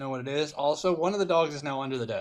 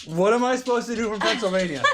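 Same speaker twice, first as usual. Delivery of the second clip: the same helpless cry, higher, through a laugh; laughing repeat; 7 semitones higher, 5 dB louder than usual. Real, not acted. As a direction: say it again, cracking up.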